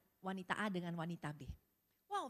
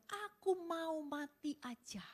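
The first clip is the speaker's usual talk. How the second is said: despairing husband; 7 semitones higher, slower than usual. Retold or imitated. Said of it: "Suaminya teriak-teriak sambil bilang".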